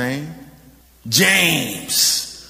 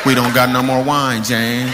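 lightly voiced wine-less guests, lower; a hint of guests begging James for more wine; guests pleading; 5 semitones lower than usual. Wedding guests begging James for wine, lightly voiced. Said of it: "Everybody looked at James".

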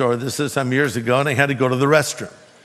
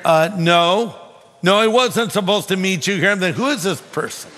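retold annoyed denial, a little raised; mildly irritated; 3 semitones higher than usual. Preacher recalls answering the stranger in the next stall, irritated. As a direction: push back with a touch of irritation. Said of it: "Getting kind of irritated".

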